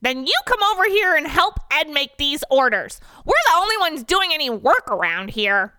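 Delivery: very high-pitched comeback; indignant retort. Acted. Dennis retorts to a coworker about deliveries, squeaky and indignant. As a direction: fire back in a squeaky put-on voice. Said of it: "retorts Dennis".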